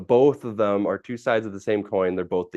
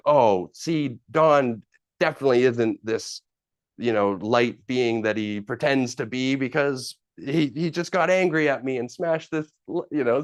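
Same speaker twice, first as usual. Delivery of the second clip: mock triumphant; 5 semitones higher than usual. Gloating over Don's anger.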